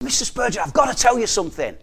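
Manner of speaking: eager, rushed words at the door; quickly blurting out news, mildly excited; a touch of an eager visitor; excited caller. Retold or imitated. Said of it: "he's all excited".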